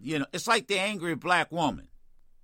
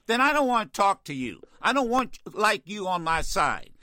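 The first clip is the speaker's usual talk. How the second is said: angry retort; 3 semitones higher than usual. Real, not acted. Host scolds defeatist caller.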